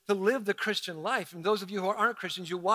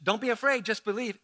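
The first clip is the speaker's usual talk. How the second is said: sing-songy cliche. Shown as a demonstration. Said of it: "if we change the tone from just".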